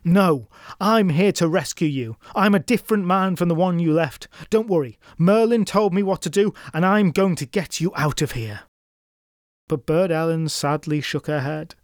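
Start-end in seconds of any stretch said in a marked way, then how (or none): 0.0-8.6 reassuring. Acted. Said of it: "Roland tried to reassure his sister".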